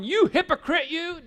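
hammed-up shout of hypocrite; playful mock scolding yell; mock outrage. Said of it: "And you're going".

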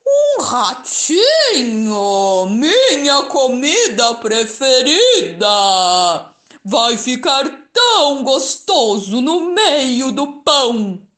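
slow, loud, greedy monster voice; hungry monster. Acted. Gruffalo eyeing the mouse as food, slow and greedy. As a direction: savour each word like a meal.

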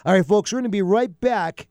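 upbeat host tease into the break; radio host break. Acted. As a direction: sign off to the break like a DJ.

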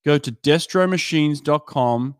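measured, scripted podcast ad delivery; sponsor ad read. Acted. Podcast host pitching swim timing gear and towers to coaches, scripted ad read. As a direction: read the sponsor copy crisply, with short pauses.

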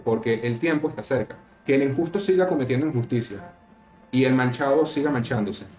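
solemn scripture reading, lightly lifted. Acted. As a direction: read the verses out like a lay preacher. Reads Bible passage aloud.

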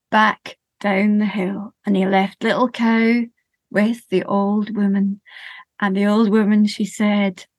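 slow, rhythmic storytelling voice; lilting children's storyteller; story narration. A narrator's reading. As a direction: tell it gently to a listening group. Tells a sensory story to audience.

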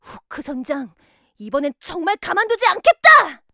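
shouting. Acted. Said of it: "외쳤어요".

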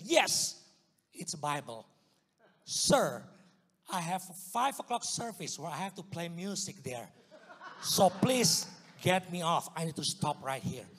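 loud, urgent pleading, half laughing; urgent plea. Retold or imitated. Begging his kidnappers to drop him off before church, loud and urgent. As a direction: beg them hard to let you go.

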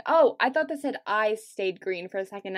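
ordinary delivery, nothing marked

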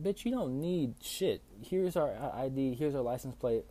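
high, loud, exasperated telling-off; retold indignant outburst. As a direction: tell them off, fed up, pitch up. Retold fed-up cussing out.

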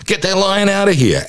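high, frantic mock panic about the lion; freaking out. Psychologist acting out panic at a lion in the office, frantic and high. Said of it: "we'd all freak out going".

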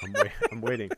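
loud, patient-but-firm parent; pointed parent waiting. Retold or imitated. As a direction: hold the pause and wait them out. Parent waiting on whiny kid.

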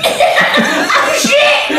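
high, loud panicked "oh shit"; laughing panicked shriek; retold scream. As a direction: shriek it like caught out. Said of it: "I just screamed and went".

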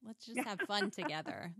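bright friendly coaxing; mock-cheerful invitation to her sewing machine; cheery to the machine.

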